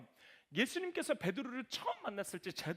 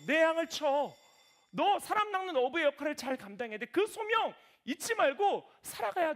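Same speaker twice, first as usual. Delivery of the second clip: earnest Jesus charge; 5 semitones higher, 7 dB louder than usual. Acted. Jesus voiced charging Peter again.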